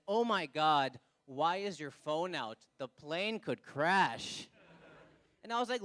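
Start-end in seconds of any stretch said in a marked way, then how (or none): 0.1-4.5 lower, slow mock panic from an anxious lady; panicky lady. Lady beside him on the plane, mock panic. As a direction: hams up a nervous passenger fretting. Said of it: "the lady next to me said".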